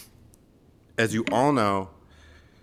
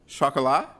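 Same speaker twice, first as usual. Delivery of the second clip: higher, questioning attempt at French; mom's best French accent; 5 semitones higher, 3 dB louder than usual. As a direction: imitate an amateur's careful French accent. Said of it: "in her best French accent".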